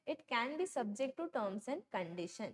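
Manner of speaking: very slow, word by word, like reading a law to copy down; slow dictation. Shown as a demonstration. Teacher dictating the contract rule to students, very slow and deliberate. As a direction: spell out each word of the rule. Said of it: "क्या बोला यहाँ पे उन्होंने".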